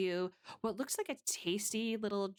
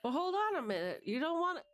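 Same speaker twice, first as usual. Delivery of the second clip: put-on higher, insistent old-time gangster voice; pushy mobster; 9 semitones higher than usual. Mobster stops player leaving.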